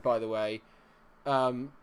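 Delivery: normal talking voice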